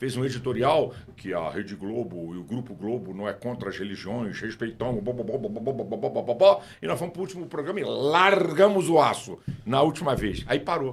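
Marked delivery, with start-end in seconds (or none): 0.0-6.3 low, big, deep newsreader anchorman voice. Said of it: "com aquela vozona dele".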